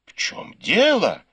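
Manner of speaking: alarmed question, pitched high; встревоженный вопрос. A narrator's reading. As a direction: ask it startled and flustered. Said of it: "переполошилась матушка Дзя". (переполошённый высокий вопрос)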